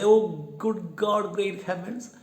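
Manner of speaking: loud, high startled exclamation; alarmed cry. Acted. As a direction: gasp out in alarm. Hero hears the cry.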